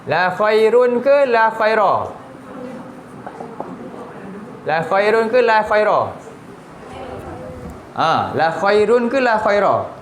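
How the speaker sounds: slow, careful "la khairun" against "la khaira", each ending clearly; contrasting two forms. Shown as a demonstration. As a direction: spell out the endings "khairun" and "khaira" slowly for students. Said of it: "apa beza?". (sebut "la khairun" dan "la khaira" perlahan, jelas bezanya hujung perkataan)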